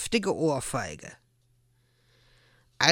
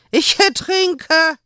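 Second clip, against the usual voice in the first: high, slow gurgling cry; 13 semitones higher, 6 dB louder, slower than usual. A narrator's reading. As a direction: gasp it out through water. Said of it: "gurgelte es".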